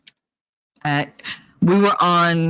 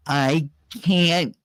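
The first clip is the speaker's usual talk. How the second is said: labored enunciation. Retold or imitated. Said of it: "and enunciate".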